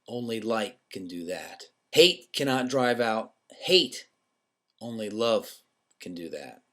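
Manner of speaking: slow, weighty recitation; reciting Doctor King's words slowly and gravely; solemn quotation. Shown as a demonstration. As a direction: let each line of the quote land slowly. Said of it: "and it is".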